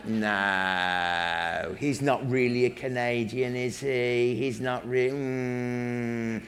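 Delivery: doubtful Brits. Retold or imitated. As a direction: mimic the doubters sizing him up, murmuring. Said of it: "So they'd look at me".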